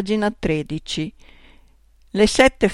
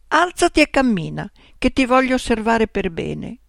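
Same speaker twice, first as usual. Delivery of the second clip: mildly angry order; 3 semitones higher than usual. Acted. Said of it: "urlai arrabbiata".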